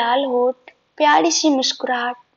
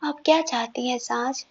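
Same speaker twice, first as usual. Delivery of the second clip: tender; 2 semitones lower, 6 dB quieter than usual. Acted. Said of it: "उसका चेहरा हाथ में भरकर".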